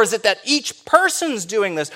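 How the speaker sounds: EACH picked out as the questioned word; questioning emphasis on EACH; stress on EACH. Shown as a demonstration. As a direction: lean on "each person's" in the question. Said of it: "put the emphasis on a different word".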